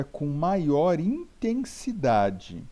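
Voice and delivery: intensidade stretched and punched high on the first syllables; emphatic stress. Shown as a demonstration. Teacher explaining tonic syllables, intensidade said with heavy emphasis. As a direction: lean hard and loud into intensidade.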